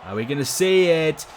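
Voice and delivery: lively wrestling play-by-play call; wrestling commentator. Acted. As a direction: call the match like a ringside announcer. Live game match commentary.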